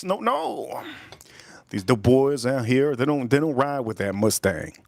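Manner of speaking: unvoiced whisper with no voice at all. Real, not acted. Streamer whispering to chat about the local dope boys. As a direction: breathe the words like a secret. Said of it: "aside to chat".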